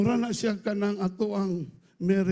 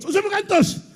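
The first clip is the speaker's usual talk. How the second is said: high, louder indignant question; surprised wife; 10 semitones higher, 5 dB louder than usual. Retold or imitated. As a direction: play the wife catching him out. Wife voiced in a joke.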